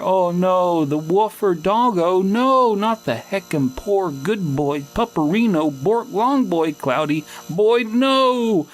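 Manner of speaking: high, mock-distraught cutesy voice; high-pitched doggo lament; doggo meme voice. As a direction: wail over the dog in a high silly voice. Mock wail over a dead dog.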